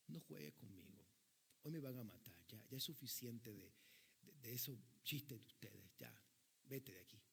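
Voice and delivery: condenado harto, en voz baja y grave; actúa sin fuerzas a quien ya no quiere bromas; rechazo abatido. Acted. (hartazgo apagado)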